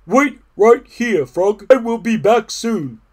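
loud, high, emphatic character voice; eager Toad. A narrator's reading. Toad to Frog, leaving for the store, eager. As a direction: call it out eagerly to a friend.

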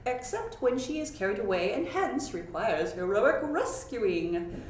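a lightly voiced prince, declaring loud and clear; strong clear declaration. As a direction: proclaim it like a pompous young prince. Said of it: "declared to her in strong and clear tones".

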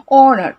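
"অনার" starting straight on an "o" vowel; silent H. Shown as a demonstration. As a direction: say "অনার" without any H, "on-ar". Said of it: "অ এর উচ্চারণ হচ্ছে".

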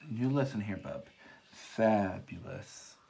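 drawn-out, slow fabulous with sass; sassy. Pretend. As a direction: lay on the attitude. Sassy praise of the palette.

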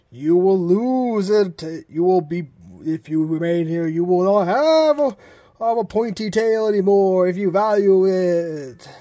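eerie threatening ghost; unearthly voice. Acted.

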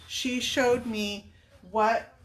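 slow, real tears welling up; choking up. Real, not acted. Praising her son's teacher, slowly choking up. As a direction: voice catching as she starts to cry. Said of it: "I'm gonna cry when I talk about her".

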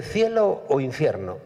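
pregunta lenta y grave de recepcionista elegante; tipo elegante. Acted. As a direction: como un portero fino que ofrece opciones. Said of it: "un tipo elegante que le dice". (voz grave y pausada de anfitrión elegante)

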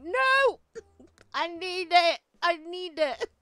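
high, loud hammed-up whine with laughter; mock childish whining. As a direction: beg like a spoilt child wanting a toy. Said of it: "And I'm like".

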